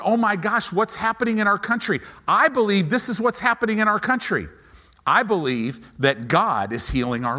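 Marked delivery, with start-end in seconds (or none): 0.0-2.0 higher, fast, fretful; mock panic. Pastor mocking panicking Christians, high and fast. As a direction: rattle it off like a worried Christian. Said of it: "freaking out".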